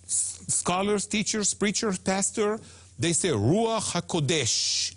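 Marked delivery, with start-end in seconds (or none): 3.3-4.9 "HaKodesh" stressed on its last syllable, DESH; slow "Ruach HaKodesh", wrongly leaning on DESH; mistaken end stress. Retold or imitated. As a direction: imitate the common mistake, "HaKodesh" accented at the end. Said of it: "the mistake that almost everybody".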